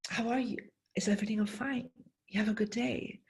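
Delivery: gentle greeting. Retold or imitated. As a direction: ask sweetly how they are. Greeting miserable stranger, softer.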